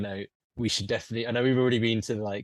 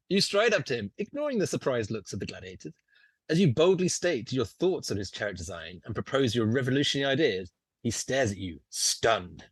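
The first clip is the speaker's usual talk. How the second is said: lightly dramatic storytelling; game master narration. Acted. Game master describes lanista to player, dramatic narration. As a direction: set the scene with measured relish.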